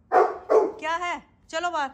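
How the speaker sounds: high, slow coaxing of a pet; pet talk. Real, not acted. Owner coaxing her pet outside, high pet-talk voice. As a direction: pitch it high, drawing out the question.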